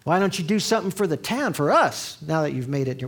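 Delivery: put-on mild Southern accent on a jealous neighbour. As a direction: play a resentful Southern small-towner in a Southern accent. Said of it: "Why do I put a Southern accent on?".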